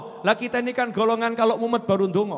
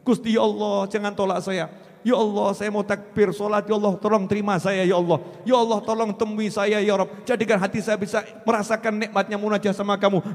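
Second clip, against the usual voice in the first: pleading prayer; faster than usual. Acted. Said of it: "sudahkah kita mengemis seperti itu".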